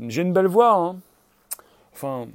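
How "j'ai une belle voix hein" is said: rising, drawn-up mock vanity; showy self-admiration. Host testing the mic on own voice, showy self-admiration. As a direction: show off the voice playfully.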